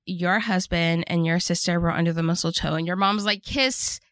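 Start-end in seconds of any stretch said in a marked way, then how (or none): 3.4-4.0 higher-pitched mock chant; playful heckling. Mom heckling a couple under the mistletoe, playful chanting. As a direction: egg them on as a heckling mom. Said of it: "starts to heckle them to kiss".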